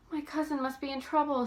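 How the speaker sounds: panicked. A narrator's reading. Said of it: "she concluded in panic".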